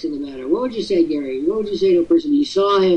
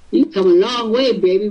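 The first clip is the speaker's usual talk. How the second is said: ad slogan; 3 semitones higher than usual. Retold or imitated. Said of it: "those Virginia Slims commercials".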